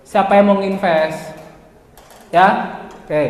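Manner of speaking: slow, lifeless reading straight off the script; mock dull sales pitch read aloud; flat reading voice. Shown as a demonstration. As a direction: drone it out like a bored presenter reading slides. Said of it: "kamu gitu sambil baca dan nadamu seperti itu".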